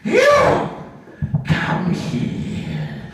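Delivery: stern summons. Acted. Trainer singling out Kevin, sharp loud call. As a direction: call him out like an angry commandant. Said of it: "but she sees him".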